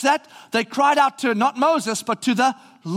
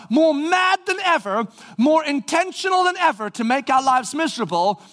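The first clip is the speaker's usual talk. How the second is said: higher, indignant mock panic of the fleeing crowd; panicked complaint; 5 semitones higher than usual. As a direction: play the outraged Israelites, pitched up. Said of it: "So their immediate thing is".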